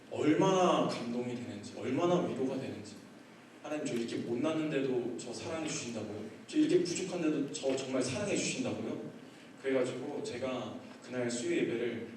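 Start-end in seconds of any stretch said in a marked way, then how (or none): 3.6-9.0 soft, moved questioning, acted; humbled disbelief. Pastor answers God's love, softly amazed. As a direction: ask God quietly, humbly amazed.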